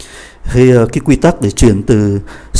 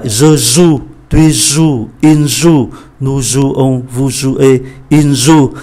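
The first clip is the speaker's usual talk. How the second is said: conjugation reread, joue stressed; teacher repeats conjugation with stress on joue; repeat reading; much slower than usual. Shown as a demonstration. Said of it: "Tôi đọc lại".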